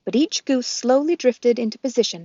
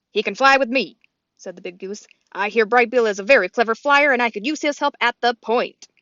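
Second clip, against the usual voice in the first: leader goose voice; 6 dB louder than usual. Acted. Longneck speaks.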